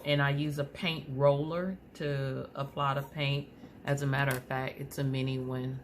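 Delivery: talking around aligner trays; slight lisp. Real, not acted. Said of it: "it sounds like I have a lisp".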